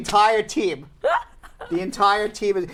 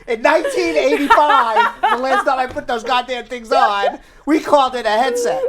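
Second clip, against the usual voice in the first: laughing; 5 semitones higher, 5 dB louder than usual. Real, not acted.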